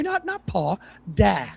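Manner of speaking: "da" said short and open, like "dah", not "paw"; correcting a pronunciation. Shown as a demonstration. Correcting the co-host on the novel's word, short "da". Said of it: "No, no, I'm sorry".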